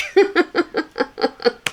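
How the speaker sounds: long, high run of giggles; amused laugh. Real, not acted. Commentator says that one's a joke, long high laugh. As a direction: cackle at your own jab.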